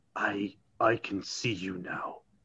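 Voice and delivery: very soft, slow, drawn-out whisper. Pulling another man in close, a character speaks to him, whispering. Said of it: "he whispers to him".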